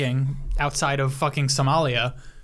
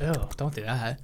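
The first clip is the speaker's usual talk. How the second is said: a light, quiet cartoon sponge voice; a hint of squeaky cartoon sponge; SpongeBob-like voice; 4 semitones lower, 6 dB quieter than usual. Co-host teasing in a mild SpongeBob voice. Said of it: "You sound like the SpongeBob guy".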